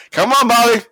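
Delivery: high, strained calling-out impression; Trump. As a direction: call up insistently in a mock high voice. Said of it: "that's exactly how Trump sounded here".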